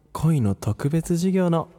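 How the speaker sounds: building announcement. Acted. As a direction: announce the lesson with growing excitement. Announcing the special class.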